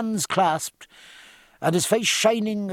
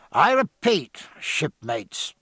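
captain addressing the crew; loud and clear; 2 semitones higher, slower than usual. Acted. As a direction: call it out to the deck. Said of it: "he said loud and clear".

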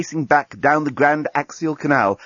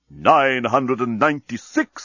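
bomb counting down; slower than usual. Acted.

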